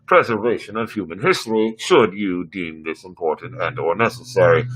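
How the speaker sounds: even, machine-like computer; ship computer voice. Acted. Ship computer advising the captain on specialists, machine-like. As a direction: read it like a dutiful onboard AI.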